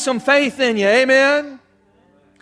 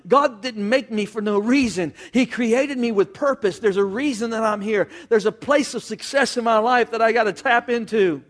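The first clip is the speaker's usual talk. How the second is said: calm self-talk. Pretend. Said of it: "harness yourself and say".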